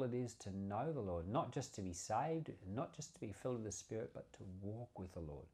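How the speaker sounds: earnest prayer to the Father, softening toward the end; a pastor closing the message in prayer. Acted. Closing prayer after the sermon.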